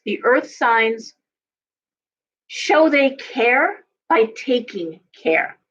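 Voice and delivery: very slow, each word laid down; slow emphasis. Real, not acted. Astrologer driving home her point about earth signs, very slow. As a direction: spell out the point slowly and deliberately.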